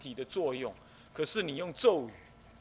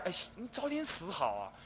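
careless urging; 3 semitones higher than usual. Retold or imitated. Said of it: "你不要讲".

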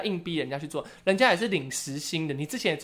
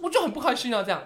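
mock sulky dad; 8 semitones higher than usual. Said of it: "我说".

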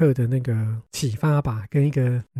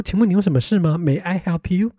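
mock customer service; 4 semitones higher than usual. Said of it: "搞得我那边做客服".

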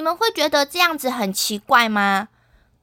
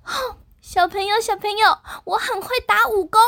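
Mulan voice; 6 semitones higher than usual. Acted. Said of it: "花木兰说".

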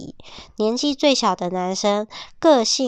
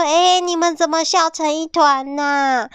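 higher wondering question; curious surprise; 7 semitones higher than usual. Acted. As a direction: ask what's so funny. Chick curious about laughter.

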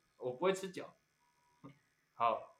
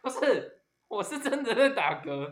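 talking through real hiccups; words broken by hiccups; 8 semitones higher, 7 dB louder than usual. Real, not acted.

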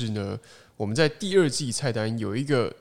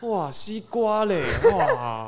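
mock angry; 9 semitones higher, 4 dB louder, much slower than usual. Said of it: "angry fruit game".

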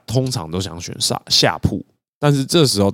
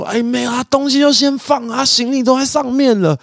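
mock yelled protest. Recruit shouts at the crowd blocking his bunk, mock indignant yell. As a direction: holler over the crowd, indignant but hammed-up.

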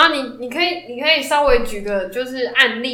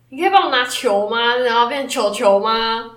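put-on cutesy baby talk; 2 semitones lower than usual. Shown as a demonstration. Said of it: "把声音变得比较可爱".

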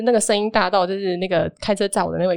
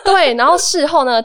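laughing; 8 semitones higher, 6 dB louder, slower than usual. Real, not acted. Laughing after the shock.

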